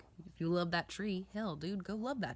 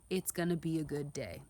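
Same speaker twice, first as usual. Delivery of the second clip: morning affirmation. Shown as a demonstration. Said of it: "in the morning time to say".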